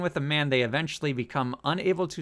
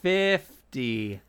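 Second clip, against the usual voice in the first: loud announcement; 6 dB louder, much slower than usual. Acted. Announcing the episode's topic.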